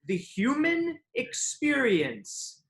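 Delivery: slow, measured speechifying; lofty written reply. Acted. Man reads his reply on shared humanity, slow lofty declaiming. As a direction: declaim it grandly, phrase by phrase. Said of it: "I responded".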